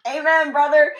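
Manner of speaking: loud, high cheer of agreement; loud preachy amen; emphatic amen. Real, not acted. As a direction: shout your agreement. Agreeing with friend's rant.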